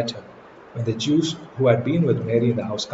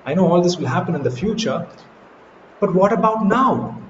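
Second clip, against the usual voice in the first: Martha's impatience; 6 semitones higher than usual. Retold or imitated. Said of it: "Martha is like".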